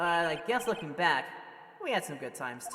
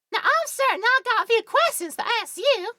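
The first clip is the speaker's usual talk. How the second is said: put-on southern belle accent; 12 dB louder than usual. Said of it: "forgotten how to do a pure, like, Southern Belle accent".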